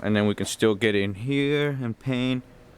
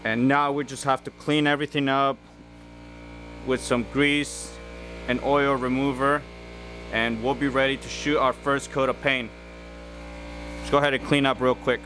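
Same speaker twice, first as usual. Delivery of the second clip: raised, higher voice over compressor noise; shouting over machinery; 4 semitones higher than usual. Real, not acted. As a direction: push the voice up over the running machine. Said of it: "the compressor is running right now".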